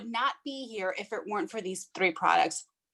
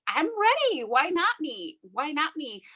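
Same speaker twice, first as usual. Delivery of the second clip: fired-up self talk; 5 semitones higher than usual. Retold or imitated. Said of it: "And I'm like".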